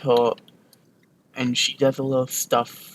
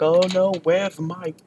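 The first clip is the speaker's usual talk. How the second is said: higher-pitched hammed-up distress; mock panic; 5 semitones higher, 3 dB louder than usual. Hag searching the room for her baby, mock panicked. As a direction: play a worried mother, voice raised. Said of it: "she's panicking like".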